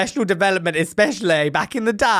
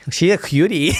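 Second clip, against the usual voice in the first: put-on cutesy American accent. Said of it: "I go into an American accent".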